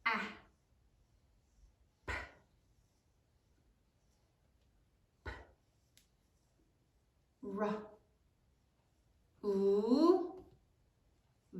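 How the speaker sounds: soft, isolated sounds for "A, p, p, ra, u, v"; "A, p, p, ra, u, v" spaced out at writing speed; sounding out while writing. Shown as a demonstration. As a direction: say "A, p, p, ra, u, v" one sound at a time, long gaps between. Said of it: "Now say it as you write it".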